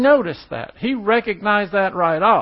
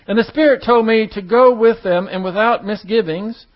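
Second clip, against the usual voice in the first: raised, emphatic Bible reading; scripture reading; 2 semitones higher than usual. Acted. Preacher reads Peter's vision to the congregation, scripture reading. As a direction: read the verse out firmly to the room.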